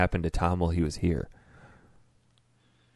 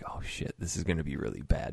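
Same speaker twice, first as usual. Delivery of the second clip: hushed, unvoiced oh-no whisper; soft dread whisper; whispered panic; 5 semitones lower, 9 dB quieter than usual. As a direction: breathe it like you're hiding. Retold inner panic.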